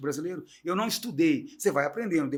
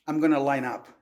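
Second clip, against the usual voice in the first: American accent, plainly demonstrated; American English accent; 4 dB louder than usual. Shown as a demonstration. Showing the host how an American says it, American accent. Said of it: "eu falo assim".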